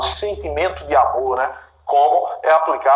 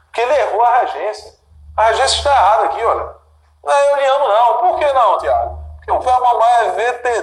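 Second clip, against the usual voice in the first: emphatic teacher; 6 semitones higher, faster than usual. Real, not acted. Teacher insists, louder.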